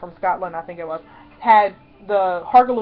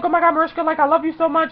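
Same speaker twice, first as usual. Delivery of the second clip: fangirl gushing; 6 semitones higher than usual. Retold or imitated. Retold gushing to her idol.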